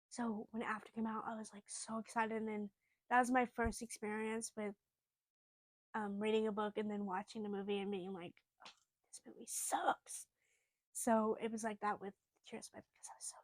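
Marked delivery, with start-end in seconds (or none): 0.1-2.4 hushed confiding whisper. Real, not acted. Telling viewers a secret, whispered. Confiding about the After movie. 8.6-10.3 whispered verdict. Retold or imitated. Retelling her verdict on After.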